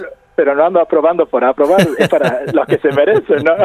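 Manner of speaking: joking aside with laughter breaking in; entre risas. Real, not acted. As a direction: laugh lightly through the words. Broma del profe entre risas. (dicho entre risas)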